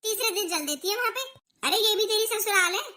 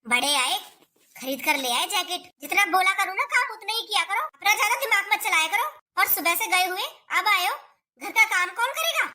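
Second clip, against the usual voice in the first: harsh, rising scold at a freeloading son; angry scolding. Acted. Mother scolds son over jacket. (गुस्से में डाँटते हुए)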